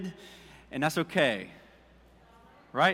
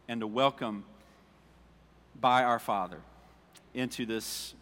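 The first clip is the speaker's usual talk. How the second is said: soft prayer; 5 semitones lower, 5 dB quieter than usual. Real, not acted. Praying quietly over congregation.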